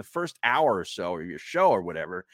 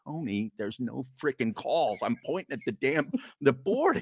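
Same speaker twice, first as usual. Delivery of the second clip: exasperated; 4 semitones higher than usual. Retold or imitated. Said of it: "I go".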